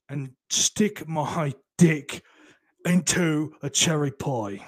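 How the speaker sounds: slow, hammed-up British presenter voice; mock show host. Parodying a Twin Peaks coffee show host, slow and hammy. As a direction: announce it like a daft TV host.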